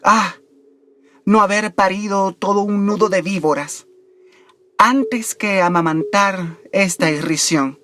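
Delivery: measured poem reading with deliberate pauses; poetry recitation. Acted. Host reciting Baudelaire's Bendición to listeners, measured poetry recitation. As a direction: recite it solemnly, drawing out the line endings. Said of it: "recitarles o referirles unas líneas del poema".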